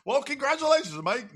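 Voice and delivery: high, booming game show host announcing a winner. Pretend. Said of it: "I sound like a game show host".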